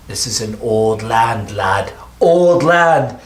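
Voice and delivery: a hint of Tick. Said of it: "he says".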